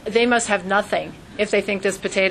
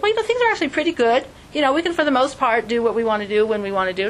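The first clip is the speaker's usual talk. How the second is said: complacent acquaintance; 2 semitones higher, faster than usual. Retold or imitated. Someone telling the rabbi things are good, breezily. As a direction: rattle it off like all is fine. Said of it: "Somebody actually tried to tell me".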